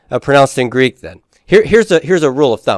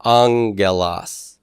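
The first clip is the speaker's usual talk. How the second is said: slow syllabified demo; 4 semitones lower, much slower than usual. Shown as a demonstration. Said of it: "so angelos".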